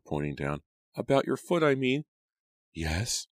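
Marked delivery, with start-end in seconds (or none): 1.0-2.1 put-on high, hesitant servant girl; nervous maid. A narrator's reading. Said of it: "Lucy stammered". 2.7-3.3 small, tight frightened question. A narrator's reading. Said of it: "in a tight, frightened voice".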